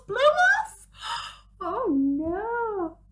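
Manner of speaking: put-on shocked dismay for the children; alarmed surprise. A narrator's reading. Snowman's nose blows off.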